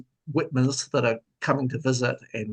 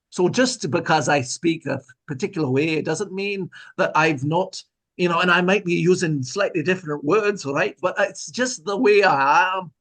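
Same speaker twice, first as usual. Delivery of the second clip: playful put-on Scottish accent, pitched up; 5 semitones higher than usual. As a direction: slip into a hammy Scottish brogue. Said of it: "the worst Scottish accent I've ever heard".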